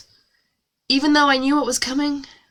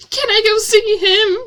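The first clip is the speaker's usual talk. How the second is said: high, louder, shakily asked question; shaky; 11 semitones higher, 5 dB louder than usual. A narrator's reading. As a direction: ask it with a high, acted tremble. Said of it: "I said shakily".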